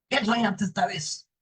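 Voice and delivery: high, slow devil voice; curious devil. Acted. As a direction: demand the dream, drawn out. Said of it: "como el diablo es curioso".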